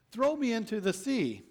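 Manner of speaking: urgent Jonah plea. Acted. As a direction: Jonah begs them to throw him in.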